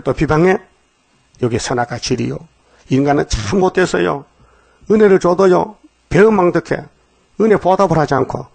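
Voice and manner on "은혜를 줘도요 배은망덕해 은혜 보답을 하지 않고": indignant preaching. Real, not acted. Preacher scolds ungrateful people.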